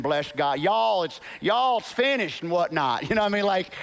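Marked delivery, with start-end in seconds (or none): 0.6-2.4 mocking Texan voice; Texan accent. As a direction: lightly put on Texas twang. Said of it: "Jesus as a middle-class Texan".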